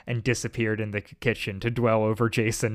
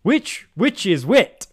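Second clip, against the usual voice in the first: laughing; 9 semitones higher, 8 dB louder than usual. Real, not acted. Giggling over a tongue twister.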